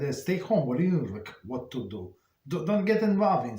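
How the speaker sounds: a retold wife, mildly voiced, scolding her husband to stay home; wife's warning. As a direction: urge him to stay out of it. Wife warns husband in story.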